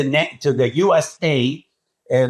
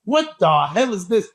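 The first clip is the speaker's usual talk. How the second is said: stunned crowd reaction; 5 semitones higher than usual. Retold or imitated. Crowd stunned at Bob's physique.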